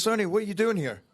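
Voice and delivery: quick question. Retold or imitated. Producer asks actor why he's there, quick. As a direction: rattle it off, puzzled. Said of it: "And then he says".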